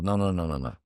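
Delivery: lightly imitated Italian accent, rapid string of refusals. Assistant director corrects the actor's misunderstanding, Italian accent. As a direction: wave it away with an Italian accent. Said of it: "in the Italian accent".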